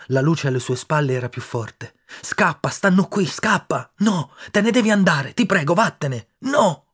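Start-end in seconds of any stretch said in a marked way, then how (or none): 2.2-6.9 high, loud begging, slow at times; boy begging his friend to run before the men come; desperate pleading. Acted. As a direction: plead with rising panic.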